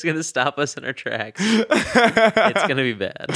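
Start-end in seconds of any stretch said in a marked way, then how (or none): 1.4-3.4 slow, laughing prediction. Real, not acted. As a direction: laugh through the words. Laughing at the idea.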